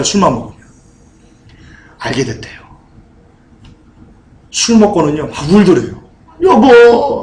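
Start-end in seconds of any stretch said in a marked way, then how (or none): 6.4-7.2 higher-pitched, mock-weeping call; imitating tearful husband. Pastor retelling a dying husband calling to his wife, imitated tearful cry. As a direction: call out like a crying drunk husband. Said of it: "하면서 막 울더래요".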